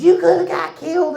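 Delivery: high, loud panicked yell; mock a terrified mother losing it; frantic mom yelling. Mom scolding her five-year-old after the van ride, yelling high and loud. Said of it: "My mom loses her fucking mind".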